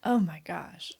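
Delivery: stunned whisper. Real, not acted. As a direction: let it out almost silently. Listener stunned by story.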